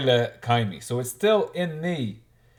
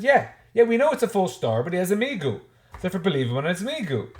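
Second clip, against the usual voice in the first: eager quote; 4 semitones higher than usual. Acted. Teacher voices Rav Yosef's reply.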